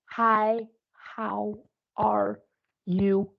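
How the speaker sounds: stretched, slowed greeting with each word drawn out; over-exaggerated slow. Shown as a demonstration. Teacher showing an over-exaggerated slow greeting to lip readers. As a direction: mouth it far too slowly. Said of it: "don't slow down so much that you're over exaggerating".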